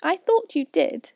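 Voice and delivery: high, loud mouse. A narrator's reading. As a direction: answer curtly. Mouse replying.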